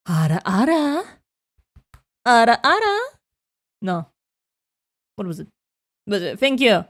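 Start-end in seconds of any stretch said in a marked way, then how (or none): 0.1-1.0 mature anime woman. Acted. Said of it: "what was her". 2.2-3.0 teasing ara ara with a rising tune; mature anime woman. Acted. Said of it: "not the ara, ara".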